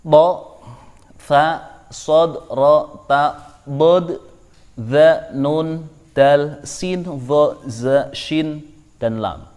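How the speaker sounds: slow Arabic letter recital; Arabic letters named one by one; letter names recited. Shown as a demonstration. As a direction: read out each letter name clearly. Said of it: "Coba kita lihat di sini ada".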